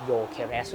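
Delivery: quiet correct Yo-keres; correct pronunciation. Shown as a demonstration. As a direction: say โยเคเรส as Yo-ke-res. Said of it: "ไปออกเสียงโยเลยนะครับ".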